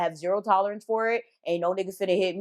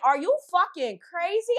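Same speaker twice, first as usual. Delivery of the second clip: high, outraged cry; going off at him over the ladder; mock outraged yell; 10 semitones higher than usual. Shouting at Nikon, outraged. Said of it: "I'm going off".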